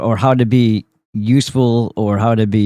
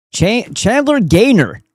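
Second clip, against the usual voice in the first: "Gaynor" said slowly with its first syllable "Gay" leaned on hard; stress on first syllable; 11 semitones higher, slower than usual. Shown as a demonstration. Naming the guy in the clip, "Gaynor" with the first syllable stressed. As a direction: drag out "Chandler Gaynor" and punch the "Gay" of "Gaynor". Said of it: "emphasis on the first part of that last name".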